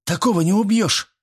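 high, sharp angry retort. A narrator's reading. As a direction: snap back scornfully. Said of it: "зло пнув". (Мила зло отвечает Артаму)

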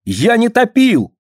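very high, desperate shout; desperate cry. A narrator's reading. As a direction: cry out in despair. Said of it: "отчаянно кричит Лёнька".

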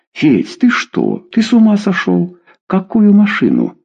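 aghast. A narrator's reading. Wife aghast at husband's idea.

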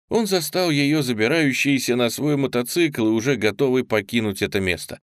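plain reading voice

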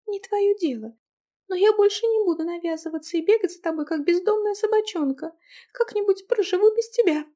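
put-on high, loud firm girl's voice. Girl firmly tells her husband she will leave. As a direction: state it firmly, as the young woman. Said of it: "твёрдо сказала она".

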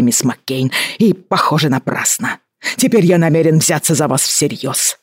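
stern angry governor. A narrator's reading. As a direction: scold her like an outraged guardian. Governor scolds ward. (гневная отповедь губернатора)

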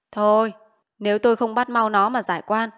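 loud, cutting "Thôi" and a hard push on; curt refusal. Acted. Village official refusing the old woman's delay, loud and stern. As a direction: shut her down and insist on the arrest.

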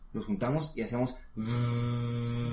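slow v-, teeth touching the lip; v sound. Shown as a demonstration. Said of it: "Con los dientes de arriba y los labios de abajo". (v con los dientes sobre el labio)

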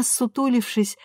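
ordinary delivery

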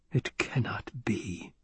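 very soft, slow disbelief; inward thought. A narrator's reading. Duke thinking to himself, tired, softly disbelieving. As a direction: barely voice it, as a weary private thought. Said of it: "he thought".

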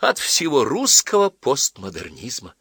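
mock-grand thanks. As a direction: thank her with a bow in your voice. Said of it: "отвесил ей низкий поклон".

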